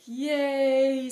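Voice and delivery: loud high yay; cheer. Retold or imitated. White Hawk cheering yay with the group. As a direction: cheer along with them. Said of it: "And he's like".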